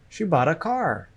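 "bought" and "car" stressed; teacher's model stressing "bought" and "car"; stress on content words. Shown as a demonstration. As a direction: punch "bought" and "car", keeping "She" and "a" light. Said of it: "The stress is on the content words".

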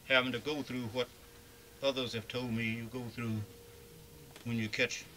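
muffled by a face mask; through a face mask. Real, not acted. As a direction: speak through a cloth mask. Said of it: "pardon my talking through this mask".

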